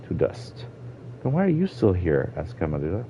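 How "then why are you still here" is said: put-on high-pitched questioning young character; puzzled child. Girl asking the old Argonian why she stayed, puzzled child voice. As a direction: ask it high, wanting an answer.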